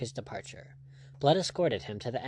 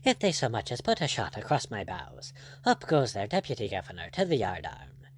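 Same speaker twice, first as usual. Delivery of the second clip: lightly voiced, easygoing buccaneer; a hint of a composed pirate captain; unruffled pirate captain. Blood answering the angry lord, lightly voiced and unruffled.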